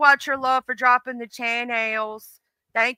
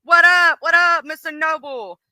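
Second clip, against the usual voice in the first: loud, higher-pitched "white voice" greeting; 6 semitones higher, 5 dB louder than usual. Acted. Greeting Mister Noble in a mock white voice, loud and high. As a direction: put on a white-person voice and call out brightly. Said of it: "Let me try to do it in a white voice".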